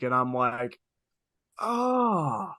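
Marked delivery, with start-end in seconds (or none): 1.6-2.5 high, slow disgusted cry of oh you sick; disgusted retort. Retold or imitated. Coworker to creepy customer, slow high disgusted retort. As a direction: spit it out in revulsion, drawn out.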